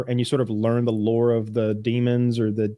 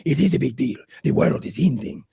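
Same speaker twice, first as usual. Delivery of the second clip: retold screaming father. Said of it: "scene where everybody's screaming at everybody".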